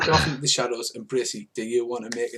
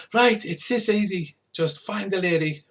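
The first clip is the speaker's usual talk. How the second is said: hustler's patter; 7 semitones higher than usual. Acted. GM voices the hustler.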